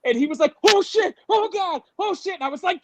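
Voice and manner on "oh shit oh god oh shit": high-pitched mock alarm; imitated startled cabbie. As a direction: yelp it in shocked bursts. Startled cab driver acted out.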